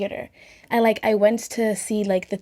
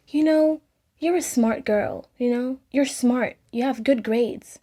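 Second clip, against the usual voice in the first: raised-pitch, patronizing teacher imitation; mock condescending; 4 semitones higher, slower than usual. Teacher humiliating a student before the class, mock condescending. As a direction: imitate a teacher talking down to a pupil. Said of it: "she then proceeded to humiliate me".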